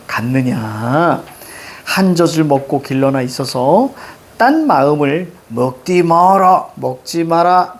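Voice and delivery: put-on slow, measured reading of old verse; poem recitation. Teacher reading a sijo aloud to the class, slow and measured. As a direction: recite the sijo line slowly and evenly.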